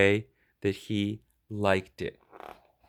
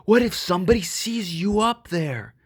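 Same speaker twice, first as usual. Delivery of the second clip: higher, louder fretful gruff voice; worried tough dog; 6 semitones higher, 4 dB louder than usual. Acted. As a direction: fret loudly that someone will see. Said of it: "Mike shouted".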